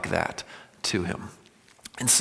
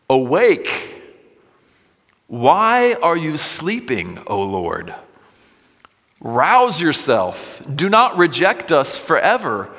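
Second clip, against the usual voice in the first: shouting at God; 6 semitones higher, 4 dB louder than usual. Acted. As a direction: cry out to God as if he were asleep. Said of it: "Now, he is shouting at God".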